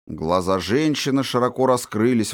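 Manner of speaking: ordinary delivery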